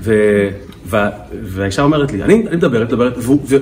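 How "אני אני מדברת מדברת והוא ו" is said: imitated wife's heated, higher-pitched rant; heated complaint. Wife complains about her silent husband to counselor, heated. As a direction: build a mock exasperated tirade, pitch jumping up. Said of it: "היא אמרה את זה בכזה להט".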